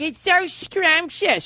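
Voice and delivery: slow, drawn-out fake delight; mock infomercial sweetness; mocking gush. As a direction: imitate a pitchwoman's phony rapture. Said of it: "when she's like".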